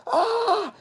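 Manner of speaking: high startled mock shriek. Model startled by protester.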